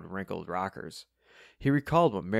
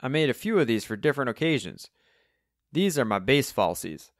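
higher, louder cheery Cockney; chirpy old Cockney character; cheery Cockney twang; 6 semitones higher, 5 dB louder than usual. A narrator's reading. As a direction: show off proudly in a Cockney voice. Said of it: "said Alvin in his cheery Cockney twang".

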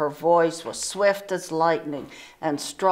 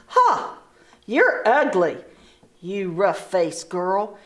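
sneering taunt; mocking sisters. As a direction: jeer at her.

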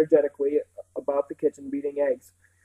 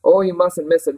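louder, mildly earnest urging; 3 semitones higher, 8 dB louder than usual. A narrator's reading. Housekeeper urges the children to carnival, earnestly. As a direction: press it on them with warmth. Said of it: "Missus Park said earnestly".

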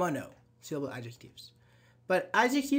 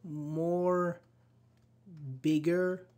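student's question; much slower than usual. Retold or imitated. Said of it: "one of my students asked me".

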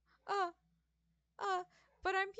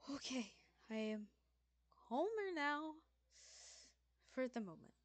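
calmer; 2 semitones lower than usual. Acted. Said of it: "takes a deep breath".

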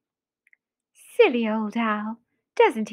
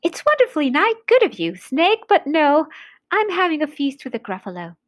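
bright-pitched, chirpy little mouse; polite refusal in a higher mouse voice; 5 semitones higher, 3 dB louder, faster than usual. Acted. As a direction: play the small mouse, voice lifted.

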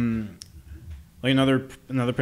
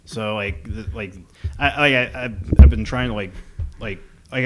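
too much caffeine; 7 dB louder than usual. Real, not acted. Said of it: "this is me on caffeine".

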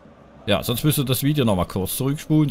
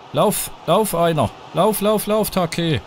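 urging on; 5 semitones higher, slower than usual. Real, not acted. Urging player on screen.

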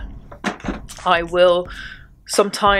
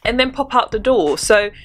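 pushy, insistent telling-off; playfully aggressive; 3 semitones higher than usual. Real, not acted. Vlogger urging viewers to sleep in a scarf, playfully aggressive. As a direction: press the point a bit too forcefully. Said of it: "I said that quite aggressively".

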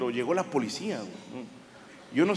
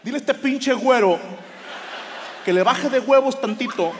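much higher, louder heated rant; angry outburst; 7 semitones higher, 4 dB louder than usual. Retold or imitated. Comic telling translator to insult the policeman, angry rant. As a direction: vent at the cop through the translator.

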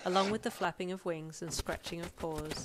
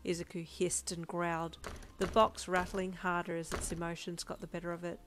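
story narration. A narrator's reading. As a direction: narrate the scene in a measured read. Reads a story aloud.

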